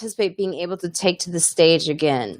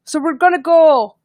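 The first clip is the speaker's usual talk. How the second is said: high-pitched imitation of Lois's Irish accent, comforting; 8 semitones higher than usual. Imitating Irish friend Lois consoling her after the doctor, high Irish accent. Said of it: "I know I'm doing her accent really bad".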